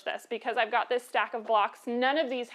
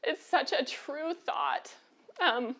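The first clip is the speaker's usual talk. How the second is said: really getting emotional, voice higher; moved and fighting to keep composure, higher pitch; choked up; 4 semitones higher than usual. Real, not acted. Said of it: "sorry, I'm getting emotional".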